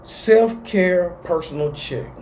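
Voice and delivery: title announcement. Shown as a demonstration. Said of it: "It's called".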